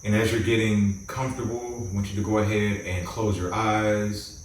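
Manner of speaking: calm, measured meditation guide with long pauses; guided meditation. Acted. Host guiding listeners to close their eyes and relax, guided meditation. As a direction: ease them into relaxing, phrase by phrase.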